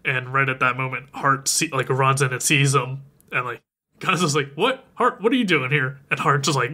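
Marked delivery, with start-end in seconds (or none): 4.5-6.0 high, jumping what; lightly acted startled disbelief; startled question. Villain surprised by the father turning up, startled.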